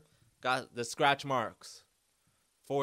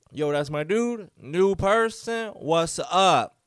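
excited dog voice; 4 semitones higher, 4 dB louder, slower than usual. Pretend. Dog voiced spotting new person.

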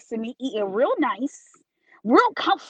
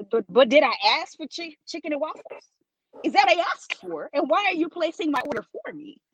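higher-pitched incredulous questioning; retold indignant challenge; 4 semitones higher than usual. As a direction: question the server in mock disbelief. Challenges bottle girl over unwanted order.

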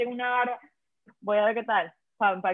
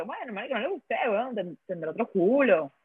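lightly acted shrug in the voice; mock nonchalance. Grown woman shrugging off a rejection, mock nonchalance. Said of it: "hoy en día es como que".

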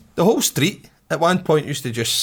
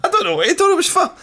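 high and fast, laughing through it; giggling helplessly mid-story; 3 dB louder, faster than usual. Real, not acted. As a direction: laugh as you say it.

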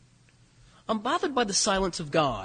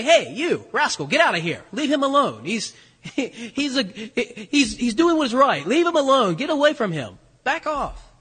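rebuke; 2 semitones higher, 3 dB louder than usual. Pretend. Imagined God rebuking the devil.

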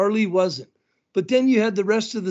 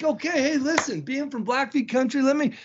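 announcer on the mic; 3 semitones higher than usual. Retold or imitated. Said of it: "So I'm like".

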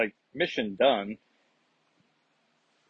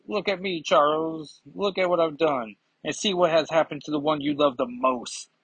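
lightly acted villain, pitched higher; taunting villain; 5 semitones higher than usual. Moira gloats to Charles over Jean, lightly acted taunt. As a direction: raise the voice for a mild gloat.

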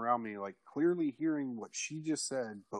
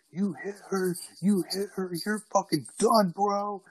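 threatening shout; 9 semitones higher than usual. Retold or imitated. Guy on the porch threatening him, high and shouting. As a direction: sound like a guy ready to fight.

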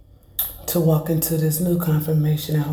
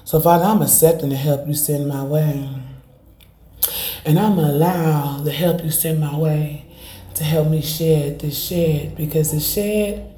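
fervent prayer. Acted. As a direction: pray it out with conviction. Prays aloud to the Lord.

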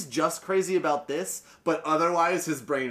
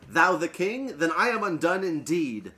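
exclaiming; 3 semitones higher than usual. Acted. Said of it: "he exclaimed".

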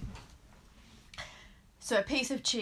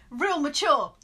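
higher, louder, mock-wounded retort; upset; 5 semitones higher, 5 dB louder, slower than usual. Upset cheese answering two school kids, mock-wounded. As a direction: hurl it back, hammed-up hurt. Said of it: "very upset, he turns around".

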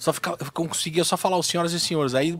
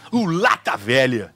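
Marcos Mion catchphrase; 4 semitones lower, slower than usual. Shown as a demonstration. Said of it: "deixa eu ver o que ele fala".

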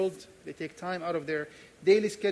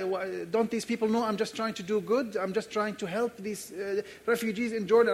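higher, agitated pleading to the Lord; acted-out fretting, building higher and louder; worked-up panic; 3 semitones higher, 3 dB louder than usual. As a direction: stammer anxiously as you work yourself up. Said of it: "I started getting worked up".

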